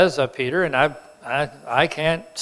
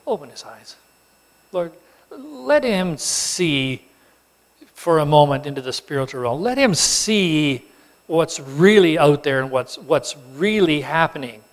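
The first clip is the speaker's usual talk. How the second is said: earnest prayer. Acted. Elijah prays for Gehazi.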